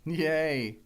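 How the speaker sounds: half-hearted little yay; unenthusiastic cheer. Acted. Co-host answering news of their own award show, half-hearted. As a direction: cheer without any real conviction. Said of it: "Don't sound so positive".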